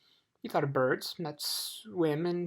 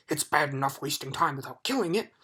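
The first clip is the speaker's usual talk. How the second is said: angry; 4 dB louder than usual. Acted. Dog still furious.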